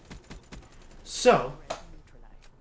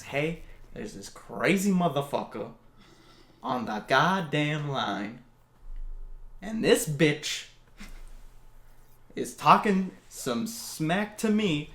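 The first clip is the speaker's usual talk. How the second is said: mock crude complaint; 2 semitones higher, 4 dB louder than usual. Babysitter cursing to police, mock loud rant. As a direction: ham up a foul-mouthed caller. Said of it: "Not really, but she said".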